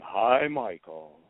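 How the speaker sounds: slow, drawn-out phone greeting; imitated caller's voice. Mother phones her son posing as a fan, imitated caller's voice. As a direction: imitate a caller saying hello, slowly. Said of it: "I hear this voice going".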